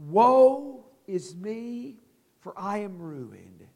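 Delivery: slow, hushed lament fading away; Isaiah's lament. Acted. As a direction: let the words sink, slow and defeated. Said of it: "Isaiah says".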